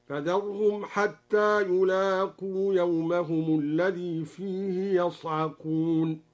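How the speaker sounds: يصعقون with fatha on the ya, yasʕaqun, slow; Duri reading demo. Shown as a demonstration. Teacher demonstrating the open ya reading, slow recitation. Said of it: "بفتح الياء ... هكذا".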